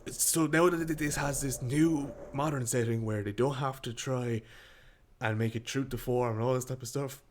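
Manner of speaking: talking through burps; words broken by burps; burping the words. Real, not acted. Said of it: "Sorry, I'm burping a lot".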